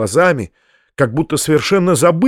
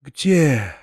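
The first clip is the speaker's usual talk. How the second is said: high, drawn-out delirious lament; theatrical delirium, pitched high; feverish raving; 7 semitones higher, much slower than usual. A narrator's reading. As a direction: wail it slowly as if in a fever. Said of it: "как будто был в жару и в бреду".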